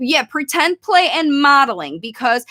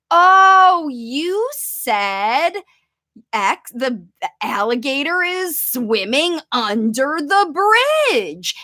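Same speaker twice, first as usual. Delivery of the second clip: 1 cheerful recast; slower than usual. Shown as a demonstration. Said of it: "you can always preface that by".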